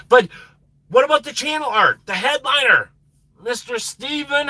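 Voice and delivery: high, bright call-out to a viewer; excited greeting. Real, not acted. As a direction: greet him like a star.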